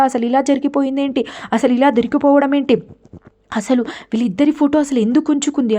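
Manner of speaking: mock panic, heart sinking; hammed-up fearful inner panic; panicked. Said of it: "గుండెలు మొత్తం జారిపోయినట్టు".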